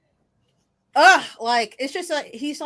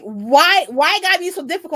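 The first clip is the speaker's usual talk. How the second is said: dad's complaint; 6 semitones higher, 7 dB louder than usual. Retold or imitated. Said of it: "he was like".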